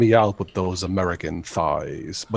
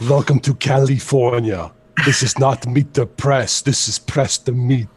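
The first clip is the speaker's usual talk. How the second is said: Schwarzenegger impression; 3 semitones higher than usual. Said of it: "they did a spoof of him".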